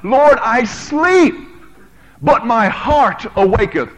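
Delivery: crying out. Acted. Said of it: "she cries out".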